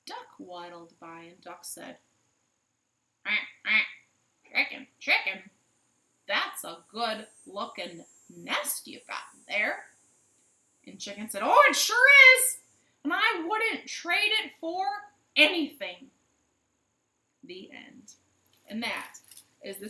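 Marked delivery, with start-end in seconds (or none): 3.2-9.9 duck voice. Acted. 11.4-16.1 high, loud proud hen voice; proud high chicken voice; Chicken's voice. Acted.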